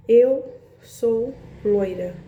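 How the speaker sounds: slow, deliberate quote of a sweet voice; imitated sweet voice. Retelling the voice she heard in her head, imitated sweetness. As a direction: draw each word out slowly, imitating a gentle voice. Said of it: "veio assim uma voz bem, bem doce, assim, bem macia".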